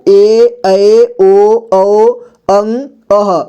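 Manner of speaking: measured vowel drill, each sound apart; reciting vowels. Shown as a demonstration. Teacher lists vowel signs for learners, measured recitation. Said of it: "इस तरह से".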